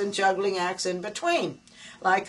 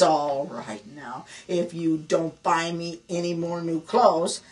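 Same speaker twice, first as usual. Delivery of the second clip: slow and deliberate, building louder to the threat; wife at her wits' end threatening her husband, hammed-up fury; mock furious ultimatum; 3 dB louder, slower than usual. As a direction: drag out every word like a final warning. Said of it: "Now she's really mad and angry".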